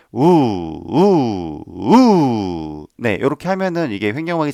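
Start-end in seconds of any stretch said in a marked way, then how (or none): 0.1-2.9 three oo pulses, the last one longest; oo pulses pushed from below; diaphragm pulses. Shown as a demonstration. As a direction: bounce the belly on each oo. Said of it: "설명이 좀 어려운데요".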